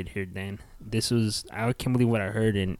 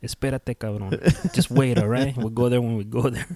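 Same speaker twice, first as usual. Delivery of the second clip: stern dad; 4 dB louder than usual. Retold or imitated. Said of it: "channel my dad's spirit".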